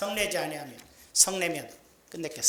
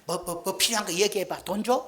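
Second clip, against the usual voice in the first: louder, hurried-sounding offer; eager placating; 3 semitones higher, 5 dB louder than usual. Acted. Preacher models husband appeasing spouse, eager placating. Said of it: "막 그렇게 얘기하지".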